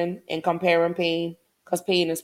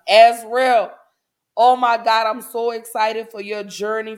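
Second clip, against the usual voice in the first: excited; 3 semitones higher, 6 dB louder than usual. Real, not acted. Excited greeting to a listener.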